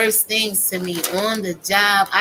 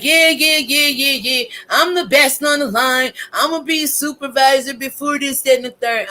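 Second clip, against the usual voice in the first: mocking coworker; 4 semitones higher than usual. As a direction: ham up his cocky yeah-yeah boasting. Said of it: "He like".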